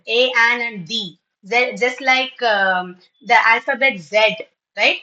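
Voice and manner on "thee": "the" said as thee; long ee in "the"; taught pronunciation. Shown as a demonstration. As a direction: say "the" to rhyme with see. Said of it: "students are taught like that".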